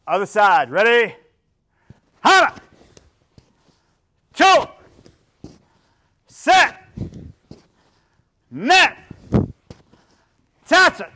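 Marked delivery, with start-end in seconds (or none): 2.2-11.1 sharp, high martial arts count; shouted drill count. Shown as a demonstration. Instructor counting kicks for the class, shouted. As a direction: bark each number out on its own.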